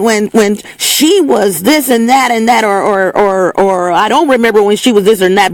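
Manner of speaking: a hint of scornful gossiping neighbour; mock gossip. Mocking the people who judge where you grew up.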